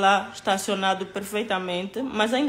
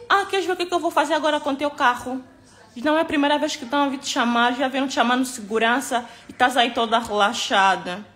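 imitating an angry shout; 3 semitones higher, faster than usual.

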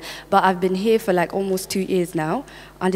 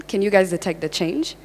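American accent; faster than usual. Shown as a demonstration. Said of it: "I'm actually using the American one".

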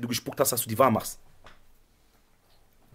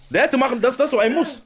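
laughing; 8 semitones higher than usual. Real, not acted. Laughing while reacting to clip.

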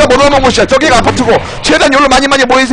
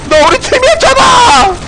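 high-pitched protesting shout; 항의하는 외침; 11 semitones higher than usual. Real, not acted. 같은 팀에게 다급히 항의함. (억울하게 높이 외치기)

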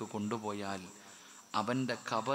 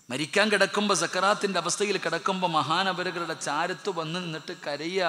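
raised, higher preaching voice, pressing hard; loud preaching; 4 semitones higher, 7 dB louder than usual. Acted. Preacher crying out to the congregation about a deathbed, louder and higher. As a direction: lift it high and loud to the crowd.

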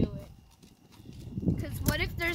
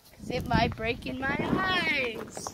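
voice crack; 4 dB louder, slower than usual. Real, not acted. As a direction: voice cracking mid-line. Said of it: "so that voice crack was bad".

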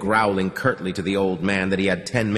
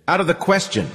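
high, sharp refusal; snapped; 10 semitones higher, 3 dB louder, faster than usual. A narrator's reading. Man refuses the girl's plea, snapping. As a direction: snap back and shut it down. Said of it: "he snapped".

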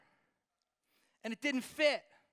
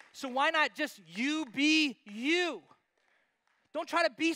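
preaching climax; 6 semitones higher, 9 dB louder, slower than usual. Real, not acted.

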